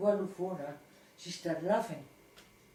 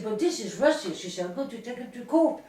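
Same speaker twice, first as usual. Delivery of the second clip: going berserk; 3 semitones higher, 6 dB louder than usual. Retold or imitated. Pranked colleague rages over the fake expulsion, louder. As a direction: protest hotly, threaten to go to court. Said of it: "She went berserk".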